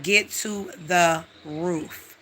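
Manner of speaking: inner voice. Retold or imitated. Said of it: "Something is in my body".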